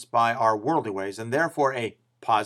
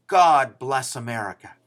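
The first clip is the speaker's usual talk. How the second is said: louder, proud declaration "God bless America"; cries out; 5 dB louder than usual. Retold or imitated. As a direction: call out "God bless America" like a patriotic cheer. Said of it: "A cat cries out".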